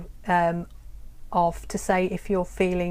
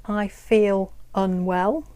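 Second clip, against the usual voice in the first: slow, clear demo; slower than usual. Shown as a demonstration. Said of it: "You can say".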